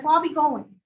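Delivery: a touch of Georgia twang; light Southern imitation. Teacher imitating the Georgia guy leaving, lightly Southern. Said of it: "And he's like".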